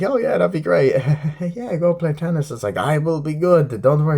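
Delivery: hammed-up chirpy reply; mock eager neighbor. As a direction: play the too-keen tennis neighbor. Mocking eager tennis neighbors.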